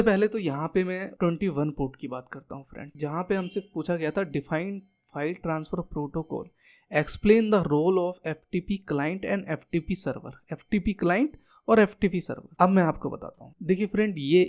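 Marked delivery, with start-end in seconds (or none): 4.3-10.3 reading the question out slowly, word by word; slow read-aloud. Shown as a demonstration. Teacher slowly reads the exam question to students.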